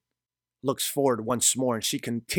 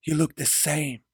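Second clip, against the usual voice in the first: higher-pitched, astonished woman; as if seeing a ghost; 5 semitones higher than usual. A narrator's reading. Mari looks at Gabriel like a ghost, high stunned voice. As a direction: say it high, in disbelief. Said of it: "like if she sees a ghost and says".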